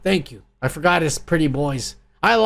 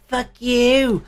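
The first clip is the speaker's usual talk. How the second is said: higher, cocky taunt building to a shouted fuck you; cocky taunting hero; 6 semitones higher, slower than usual. Retold or imitated. Reviewer imitates the hero taunting the camera drones, rising to a shout. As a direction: gloat at the camera, then yell the last words. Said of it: "he's looking at the camera going".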